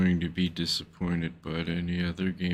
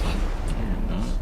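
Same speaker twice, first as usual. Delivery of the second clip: put-on French Canadian accent; 3 semitones higher, 4 dB louder, much slower than usual. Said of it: "That was my best French Canadian accent".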